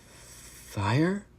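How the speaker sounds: startled high question; shocked. A narrator's reading. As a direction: gasp it out in shock. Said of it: "I said in shock".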